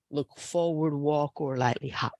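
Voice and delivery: hushed unvoiced whisper; whispered cue. Real, not acted. Yoga teacher whispering the transition cue to the class. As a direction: murmur the cue under your breath.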